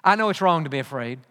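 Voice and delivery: low, quick, half-muttered self-talk. Retold or imitated. Preacher voicing his own excuse to himself, low and quick. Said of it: "I think".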